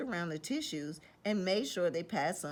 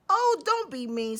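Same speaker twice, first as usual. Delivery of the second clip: louder, high snuffly whine; sniffling plea; 8 semitones higher, 7 dB louder than usual. Acted. Wolf with a cold pleading, sniffling. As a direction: sniffle it like a hurt child.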